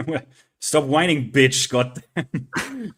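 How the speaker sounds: mock German accent, the last words dragged out very slowly. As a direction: put on a hammed-up German accent. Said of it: "in your best German voice".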